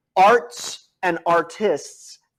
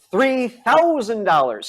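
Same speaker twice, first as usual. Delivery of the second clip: booming prize announcer; 4 semitones higher, slower than usual. Pretend. Host hyping the prize.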